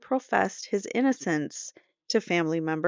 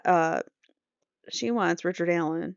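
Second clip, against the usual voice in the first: normal talking voice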